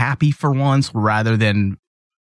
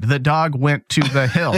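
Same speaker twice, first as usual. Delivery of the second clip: beginner reader; slower than usual. Retold or imitated. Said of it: "when you're first learning how to read".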